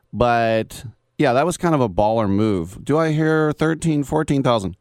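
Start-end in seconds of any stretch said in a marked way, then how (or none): 2.8-4.8 lightly voiced auctioneer, higher pitched and calling out bids. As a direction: mimic an auctioneer rattling off bids. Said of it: "an auctioneer guy goes".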